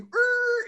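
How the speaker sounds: imitated brake screech. Imitating emergency braking noise.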